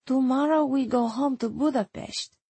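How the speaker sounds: lightly voiced accented reply; a subdued Erzsébet, voice a little lifted; downcast Hungarian woman. Erzsébet answers the visitor about meeting tomorrow, subdued accented voice.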